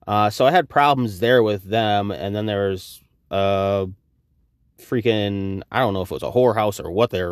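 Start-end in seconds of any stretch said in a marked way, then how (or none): none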